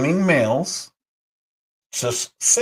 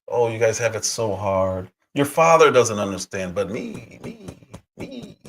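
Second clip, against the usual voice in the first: mocking the teacher; 3 semitones lower than usual. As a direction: mimic a fake-caring teacher fishing for praise. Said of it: "This is what I'm hearing".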